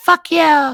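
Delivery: tiny shrill squeaky cheer, high and very loud. The narrator describes Chitters speaking into a player's ear, in a little tiny voice. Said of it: "you hear a little tiny voice say".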